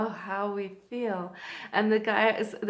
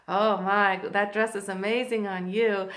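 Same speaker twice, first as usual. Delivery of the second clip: loud gushing compliment, easing off; admiring flirt; 6 dB louder than usual. Retold or imitated. Miami man compliments her dress, gushing flirt. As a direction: imitate an impressed admirer laying it on.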